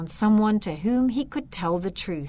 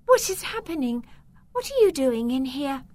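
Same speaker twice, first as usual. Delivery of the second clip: higher, startled and anxious; a girl woken in alarm; suddenly woken girl, anxious and higher; 7 semitones higher, 4 dB louder than usual. Acted. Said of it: "She said in an anxious voice".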